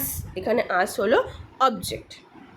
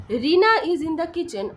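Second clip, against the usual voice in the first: slow, raised-pitch example sentence; slow model answer; 5 semitones higher, much slower than usual. Shown as a demonstration. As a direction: read the answer out deliberately for learners. Teacher models dialogue answer.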